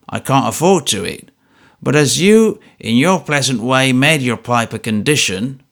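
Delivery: a hint of a wheedling old miser; lightly voiced miserly old man. Old man excusing his stinginess to the trooper, lightly voiced. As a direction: speak as a grasping old man justifying himself.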